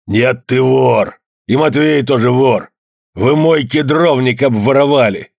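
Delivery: slow, loud accusing shout. A narrator's reading. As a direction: hammer out each accusation. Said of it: "повысил голос Евдоким".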